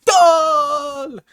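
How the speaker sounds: long, high, loud goal yell; soccer commentator goal call. Pretend. Streamer imitates a soccer announcer calling a goal, long and loud. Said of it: "soccer goal being scored".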